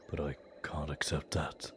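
a desperate father, almost voiceless; hushed anguish. Acted. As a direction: let the voice drop away, half whispered. Father refusing to give up child.

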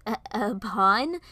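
slow, stuttered disbelief; drawn-out incredulous question; incredulous half-laugh. Acted. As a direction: question it slowly, as if absurd. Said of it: "I laughed".

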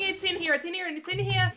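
hushed terrified murmur; whispering in fear; scared horror game streamer. Real, not acted. Hiding from monster.

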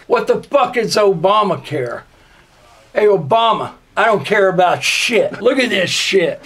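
normal talking voice

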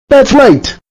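furious. Acted. Computer voice scolding the user, now furious. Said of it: "I am now furious at you".

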